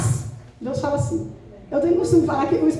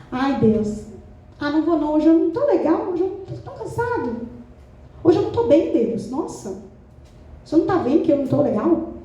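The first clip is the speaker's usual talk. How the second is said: mock-weary complaint to God, pitch swinging up; put-on reluctant whine; whiny excuse. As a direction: wheedle your way out of it. Acting a believer's excuses to God.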